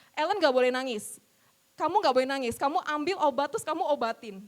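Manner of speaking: put-on loud, firm scolding of a crying child; stern mother's order. Mother tells her hurt little daughter not to cry, loud and stern. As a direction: forbid the tears, loud and firm. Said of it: "terus mama saya ngomong".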